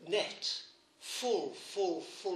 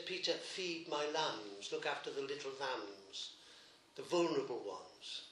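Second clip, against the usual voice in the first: gentle slow charge. Acted. Christ speaking gently to Peter.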